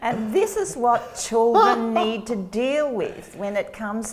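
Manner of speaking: laughing while talking. Real, not acted. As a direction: still laughing as she explains. Laughing after the poem.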